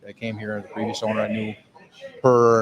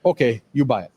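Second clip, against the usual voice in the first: imitating wife; 2 semitones higher, 3 dB louder than usual. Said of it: "I love the way he leaves all the, the vowels out".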